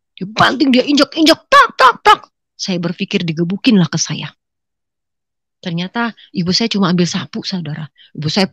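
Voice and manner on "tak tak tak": high, loud staccato impact noises; imitated stamping. Mother stamping on the picture, imitated stamping. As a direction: voice each stamp sharply.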